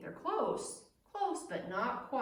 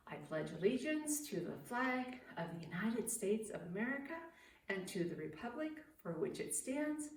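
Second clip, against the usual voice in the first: steady, fast classroom pledge read; brisk recited pledge; pledge recitation; 3 dB quieter than usual. Acted. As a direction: lead the kids through the pledge.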